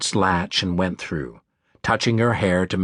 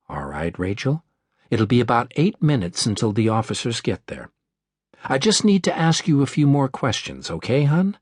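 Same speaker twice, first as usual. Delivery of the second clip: warm operator. Acted. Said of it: "Her voice was warm and calm".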